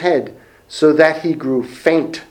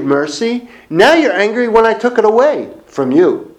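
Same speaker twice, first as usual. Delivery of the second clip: rising higher as God presses Jonah on his anger; God questioning Jonah; 5 semitones higher than usual. Acted. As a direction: build it up as God confronting a sulking prophet. Preacher voicing God questioning Jonah.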